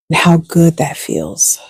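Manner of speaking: guided meditation. Acted. Coach guides listeners lying in bed after the alarm, guided meditation. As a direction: settle listeners into rest, letting each phrase hang.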